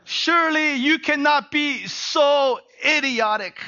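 mock-exasperated rebuke of foolish friends; exasperated scolding. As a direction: drag out the dear idiots, then burst with disbelief. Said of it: "He puts it".

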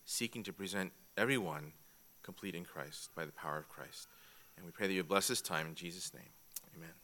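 soft, low prayer to close the opening; closing prayer. Real, not acted. Pastor praying over the class before teaching, soft and low. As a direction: quietly pray the group into the lesson.

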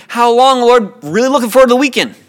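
mock cry to God, then rushed; mock plea. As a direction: parody a trivial prayer, quickening at the end. Parody of a trivial prayer.

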